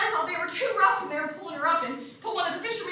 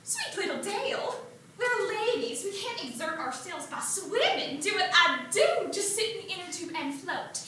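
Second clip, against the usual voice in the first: put-on prim older sister; 6 dB quieter than usual. Edith lecturing little Dale on being ladies, soft and prim. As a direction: coo it like a proper little lady. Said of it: "And Edith said".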